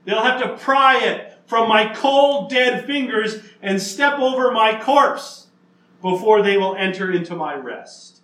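defiant, unbreakable oath; emphatic vow. Retold or imitated. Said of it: "That's how emphatic".

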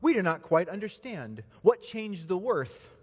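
puzzled crowd. Acted. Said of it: "but some of them cried".

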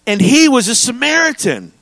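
high-pitched, pointed reveal on "Samaritan"; emphatic reading. Shown as a demonstration. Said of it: "that's how this language should be read".

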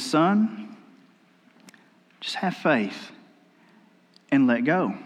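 soft, low, calm voice from above; hushed calm voice of God; calm quiet voice. Retold or imitated. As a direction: speak gently and softly, like God reassuring. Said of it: "this calm, quiet voice says".

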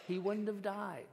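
mild anger with weight on YOU; understated bitter accusation; angry reproach. Acted. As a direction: reproach him, leaning on YOU. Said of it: "can you hear the anger in her words".

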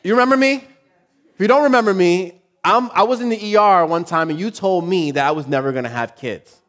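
high, loud mock-sweet challenge; wife calling out the doctor, voiced high and loud; pointed wife. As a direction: corner the doctor with a told-you-so. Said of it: "my wife made a point to be like".

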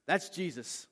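excited realization. Retold or imitated. John to Peter on spotting Jesus, excited announcement.

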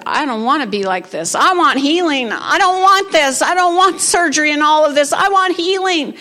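rising insistent cry for healing; pleading demand. Retold or imitated. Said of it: "She said".

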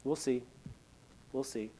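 soft, unhurried mentor's reply; gracious patience. Retold or imitated. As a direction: imitate a patient senior pastor, quietly noncommittal. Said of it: "looking at me with just that gracious eyes".

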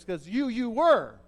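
a halting, stuttered 'you, you were', slow; Paul almost stutters. Shown as a demonstration. Preacher showing Paul's stutter, halting and slow. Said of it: "He almost says, he almost stutters".

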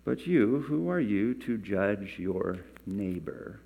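measured, emphatic Bible reading; scripture reading. Acted. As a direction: read the verse out deliberately, stretching key phrases. Reads scripture aloud.

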